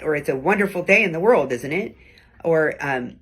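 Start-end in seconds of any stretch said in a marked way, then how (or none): 0.2-2.0 sarcastic. Shown as a demonstration. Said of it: "The sarcastic or ironic tone".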